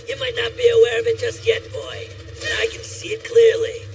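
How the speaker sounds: high, loud proclamation; exultant shout. Acted. Warrior telling boy of his talent, exultant shout.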